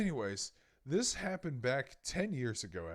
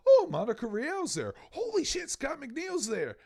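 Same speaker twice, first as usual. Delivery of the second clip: much higher, loud starstruck gasp; excited fan; 14 semitones higher, 6 dB louder than usual. Retold or imitated. Fan reading the guest list, excited. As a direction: squeal like a fan spotting idols.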